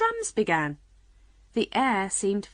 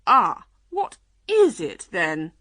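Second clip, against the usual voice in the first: excited unicorn, crowing; crying out; 6 dB louder than usual. A narrator's reading. Unicorn teasing the lion about Alice, crying out. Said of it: "the unicorn cried".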